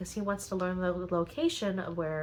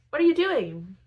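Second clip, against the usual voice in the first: much higher, louder startled question; surprised challenge; 8 semitones higher, 6 dB louder than usual. Retold or imitated. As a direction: call out in surprise at the intruder. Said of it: "Phineas sees him and is like".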